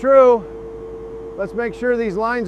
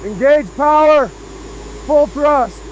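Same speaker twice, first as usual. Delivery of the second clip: raised voice over machinery; calling out; 2 semitones higher, 3 dB louder, much slower than usual. Real, not acted. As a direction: call it out loud to the crew. Calling out over the drill noise.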